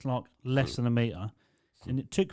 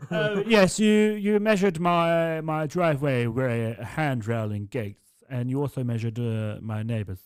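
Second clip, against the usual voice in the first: put-on old lady voice; 2 semitones higher, 4 dB louder, slower than usual. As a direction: drag it out like a confused old dear. Old customer voiced in story.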